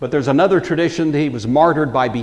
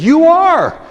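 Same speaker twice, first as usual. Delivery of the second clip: believing exclamation; 3 semitones higher, 6 dB louder than usual. Retold or imitated. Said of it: "went from skeptic to believer".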